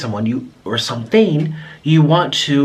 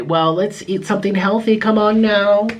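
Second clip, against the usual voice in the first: higher-pitched mock scolding of a commenter; mock nagging; 7 semitones higher than usual. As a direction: imitate someone urging healthy eating, pitched up. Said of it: "don't say".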